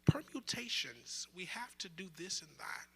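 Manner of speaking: a drawn-out, lightly voiced lecturer; a hint of a droning teacher; imitating the teacher. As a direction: slowly drag out permutations like a dull professor. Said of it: "he talks like this".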